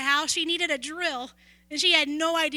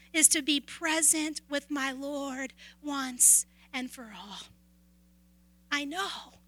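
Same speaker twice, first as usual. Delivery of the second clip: hushed sermon close. Acted. Quiet sermon close over music.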